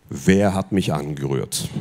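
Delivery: deep and slow, a solemn question. Shown as a demonstration. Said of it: "Sag mal so mit tiefer Stimme".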